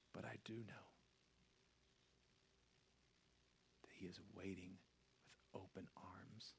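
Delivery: low, very soft altar call; near-whispered invitation, low and solemn; hushed preaching. Real, not acted. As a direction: speak tenderly with long, weighty pauses. Hushed altar call after climax.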